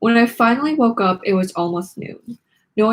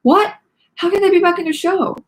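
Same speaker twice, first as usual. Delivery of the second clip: much higher, louder outraged yell; Mackenzie screaming; 10 semitones higher, 4 dB louder than usual. A narrator's reading. Mackenzie screaming at Nikki about the show, high and loud. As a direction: shriek in protest. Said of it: "Mackenzie screamed".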